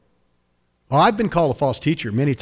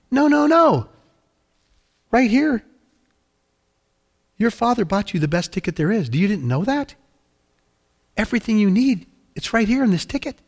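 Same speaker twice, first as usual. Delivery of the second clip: high, emphatic correcting voice; insistent captain; 7 semitones higher than usual. Acted. Captain showing a passenger his first-class ticket, incredulous and insistent. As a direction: cut off his doubts, pitched high.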